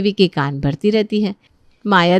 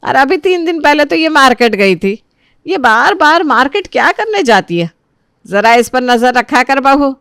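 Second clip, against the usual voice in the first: scolding mother-in-law; 2 semitones higher, 4 dB louder than usual. Acted. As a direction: complain sharply about the other daughter-in-law. Mother-in-law scolds about Disha.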